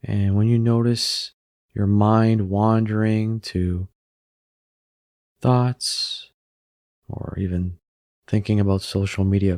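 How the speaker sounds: unhurried meditation guide with long pauses; calm, even delivery, leaving room to breathe; guided meditation. Acted. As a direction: guide them gently into stillness, phrase by phrase.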